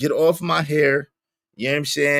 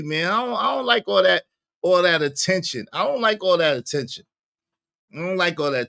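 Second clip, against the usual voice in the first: ordinary talk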